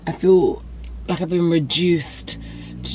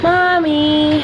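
calling out; 9 semitones higher, 5 dB louder than usual. Real, not acted. Calling to mom arriving home.

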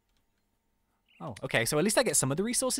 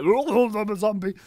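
slow, drawn-out dopey zombie voice; zombie impression; 4 semitones higher, 8 dB louder, slower than usual. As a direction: drag it out like a dumb zombie. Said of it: "that was my zombie impression".

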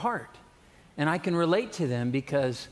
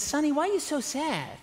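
put-on much higher, frail old grandma asking gently; 11 semitones higher than usual. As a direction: put on a kindly old granny voice. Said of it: "She says".

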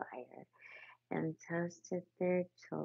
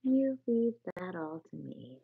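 firm and louder, in charge; masterful rat; 2 semitones higher, 6 dB louder than usual. Acted. Confident masterful rat. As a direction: rat reassuring the mole, masterful. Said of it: "said the masterful rat".

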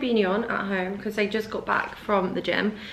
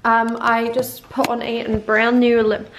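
slow, louder put-on South African accent; 4 dB louder, slower than usual. Shown as a demonstration. Vlogger showing her lip combo in a put-on South African accent. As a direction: slip into a mock South African lilt. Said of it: "I need to stop speaking in South African".

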